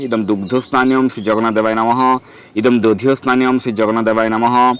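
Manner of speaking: level, measured Sanskrit mantra intonation; mantra recitation. Shown as a demonstration. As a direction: recite the ritual formula, holding the final syllables. (মন্ত্র পাঠের সুরে)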